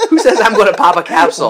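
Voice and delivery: loud, high incredulous question through laughter; laughing mockery. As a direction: shout the absurd phrase while cracking up. Mocking absurd threat while laughing.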